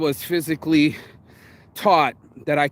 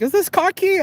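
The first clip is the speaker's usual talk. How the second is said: mock official question; 3 dB louder than usual. Chinese officials questioning him.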